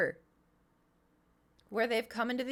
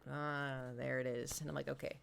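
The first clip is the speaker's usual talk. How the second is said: sinking realization; 7 semitones lower, 8 dB quieter than usual. Retold or imitated. Retold sinking realisation about baby.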